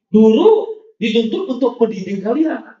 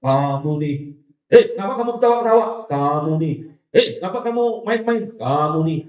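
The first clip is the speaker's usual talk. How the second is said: scolding senior. Retold or imitated. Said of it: "Kakak-kakak kelasnya mungkin agak sih".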